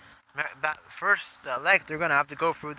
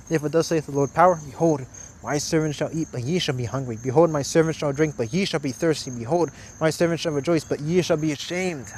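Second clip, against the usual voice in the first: louder, declaiming the verses; scripture reading; 3 dB louder than usual. Acted. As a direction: proclaim the verses from the pulpit. Reads scripture aloud.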